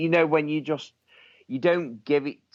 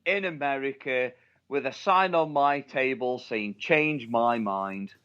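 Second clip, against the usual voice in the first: raised, high mock-earnest announcement, slowing at the end; mock declaration; 6 semitones higher than usual. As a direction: declare it high and deliberate like a challenge. Mock meme declaration over laughter.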